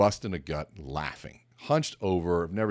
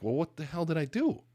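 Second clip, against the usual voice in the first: higher-pitched, retold bafflement; mock exasperation, rising at the end; exasperated question; 10 semitones higher than usual. Presenter asks laughing partner what he did, exasperated.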